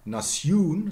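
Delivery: NATION as "nas-YOON", rising; Middle English pronunciation. Shown as a demonstration. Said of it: "must have been in Middle English".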